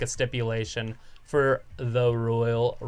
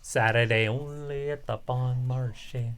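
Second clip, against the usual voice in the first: department store ad; 3 dB quieter than usual. Retold or imitated. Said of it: "I always like the Bon Marché ones".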